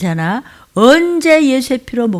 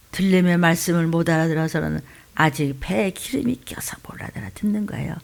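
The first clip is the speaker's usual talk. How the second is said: hushed whisper; whispered aside to the congregation; 5 semitones lower, 7 dB quieter than usual. Real, not acted. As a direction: drop to a secret whisper. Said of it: "whispered aside in sermon".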